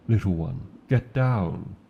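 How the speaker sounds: loud, sharp command to duck; urgent warning. Acted. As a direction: protect the rider, fast. Arrows fired, warning the rider.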